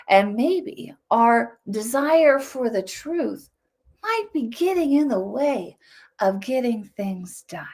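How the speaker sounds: whispered, slow parody of the gentle speaker; mock soothing whisper. Shown as a demonstration. Commentator parodies the soothing TED tone, whispering. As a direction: breathe it out slowly, sweet and harmless. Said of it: "if you talk like this".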